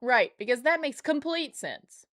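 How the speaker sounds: dripping sarcasm, full conviction; "Right, because that makes complete sense" sneered; sarcastic. Shown as a demonstration. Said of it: "I emphasized the wrong syllable".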